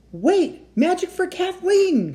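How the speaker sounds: high, loud, slow drawn-out cry; desperate cry. Acted. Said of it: "cried Jack".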